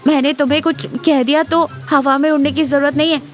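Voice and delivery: put-on crossness. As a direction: cover embarrassment with huffy scolding. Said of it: "अपना regular गुस्से वाला चेहरा बनाकर कहती है".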